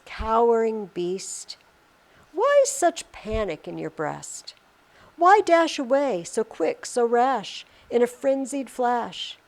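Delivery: slow, deliberate verse recital; measured, expressive recitation to a mouse; poem reading. Acted. Reads the poem aloud to class.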